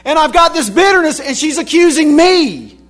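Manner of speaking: high, loud, fast-rising retelling of Elijah's complaint; worked-up prophet voicing his grievance. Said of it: "here's a guy who said".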